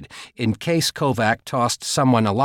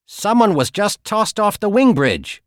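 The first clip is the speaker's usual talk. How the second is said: sudden high alarmed shout; 10 semitones higher, 5 dB louder than usual. A narrator's reading. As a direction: call it out in alarm. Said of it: "Holly suddenly shouted".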